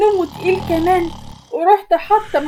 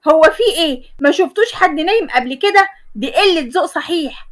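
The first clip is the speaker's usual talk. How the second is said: indignant, moderately raised voice. Acted. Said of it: "ورحت قلت بصوت عالي".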